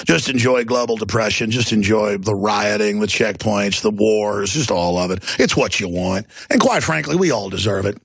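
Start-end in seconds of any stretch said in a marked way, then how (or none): 0.1-6.3 sarcastic. Real, not acted. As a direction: drop low and invite them grimly to enjoy it. Sarcastic gloating after a laugh.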